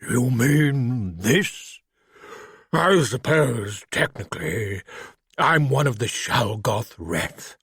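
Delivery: put-on slow, careful refined British accent; lightly voiced refined British creature. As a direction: speak like a polite English gentleman in a monster's body. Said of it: "with a refined British accent".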